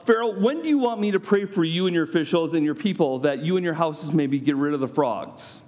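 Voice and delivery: sarcastic formality. Retold or imitated. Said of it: "This is a sarcastic formality here".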